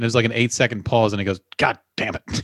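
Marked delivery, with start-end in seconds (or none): 1.6-2.4 put-on, through gritted teeth, much slower. Retelling what a man said after a long pause, imitating him through gritted teeth. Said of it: "He was gritting his teeth for like 8 straight seconds".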